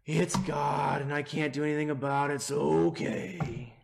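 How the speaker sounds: mock-resigned, giving up; a hint of weary resignation; resigned shrug. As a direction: say it like a defeated sigh of acceptance. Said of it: "have read this phrase as sort of resignation".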